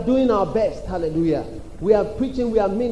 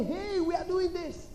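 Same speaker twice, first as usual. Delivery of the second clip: high-pitched, drawn-out far-off call; mock call to distant listeners; 9 semitones higher, 10 dB quieter, slower than usual. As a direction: call it high and slow, softly. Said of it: "when we say".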